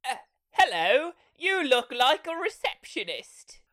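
high, drawn-out mock greeting; awkward heroine parody. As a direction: ham up a clumsy introduction, high-pitched.

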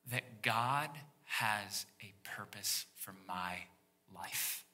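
slow unvoiced whisper of awe; slow, hushed whisper. Real, not acted. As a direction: hush it like a secret of peace. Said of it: "gives me tremendous peace".

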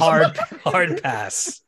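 slow, drawn-out hard pass; emphatic refusal. Real, not acted. Player slowly stretching out a firm refusal. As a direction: stretch out each word to refuse.

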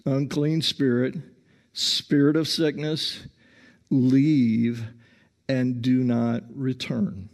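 calm, measured command with firm pauses; composed rebuke, phrase by phrase; calm, normal. Shown as a demonstration. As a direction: say it evenly, without yelling. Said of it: "very calmly, very normally say".

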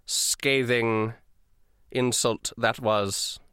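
ice-cold, deliberate formality with long pauses; dry, lightly sarcastic and self-important; haughty dragonborn official. Acted. Duke's assistant addressing his captives, coolly haughty and measured. Game master plays the silver dragonborn.

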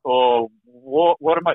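retold stunned, halting question; slow, hesitant alarm, rising at the end; fearful disbelief. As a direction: relive the dread, stretched out with gaps. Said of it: "you hear the fear in my voice".

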